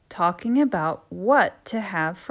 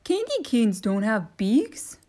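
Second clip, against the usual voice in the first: christmas elf; 2 semitones higher, 3 dB louder than usual. Acted. Elf voiced.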